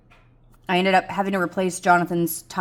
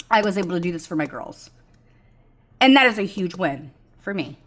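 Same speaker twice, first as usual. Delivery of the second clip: emotional. Real, not acted. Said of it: "I'm getting emotional".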